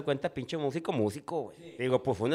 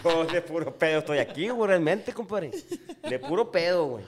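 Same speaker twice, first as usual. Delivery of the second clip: laughing; 3 semitones higher than usual. Real, not acted. Laughing at himself.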